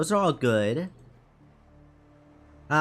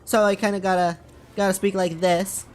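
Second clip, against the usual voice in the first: slightly raised, tentative Italian accent; 3 semitones higher than usual. Shown as a demonstration. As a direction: put on an Italian accent, feeling it out. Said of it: "an Italian accent".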